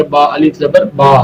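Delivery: با said with a long open a; spelled-out pronunciation. Shown as a demonstration. Teacher repeats the correct sound of با for students. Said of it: "اس کا تلفظ با سے ادا کیا جائے گا".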